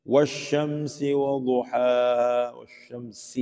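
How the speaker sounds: 'والشمس' with clean whistled S; slowly chanted 'والشمس', thin clear S; correct SEEN. Shown as a demonstration. Teacher reciting to show SEEN read correctly, slow chant. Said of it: "سین کو صحیح پڑھتے ہیں".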